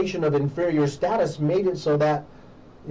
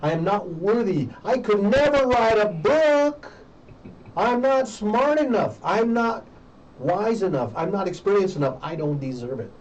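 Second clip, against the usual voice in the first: voicing self-doubt; 2 semitones higher than usual. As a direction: act out someone convinced they are unworthy. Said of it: "internalized that inferior status and said".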